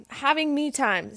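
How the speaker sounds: hiccups. Real, not acted. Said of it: "Sorry, I just totally got the hiccups".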